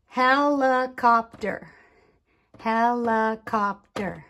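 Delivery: "Helicopter" in four measured beats; tapped syllables. Shown as a demonstration. Teacher introducing a word, "Helicopter" syllable by syllable. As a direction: say "Helicopter" as he, li, cop, ter. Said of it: "tap out the different sound groups".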